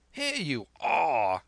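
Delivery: slow, booming hearty greeting; hearty cry. A narrator's reading. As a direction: call out like a jolly squire. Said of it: "he cried".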